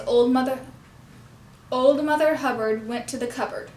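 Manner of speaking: put-on "Old", "Hubbard", "went", "cupboard" hit, the rest light; stress on old, Hubbard, went, cupboard. Shown as a demonstration. Teacher gives a nursery rhyme for puppet mouth practice, key words stressed. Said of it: "emphasizing the words old, Hubbard went, and cupboard".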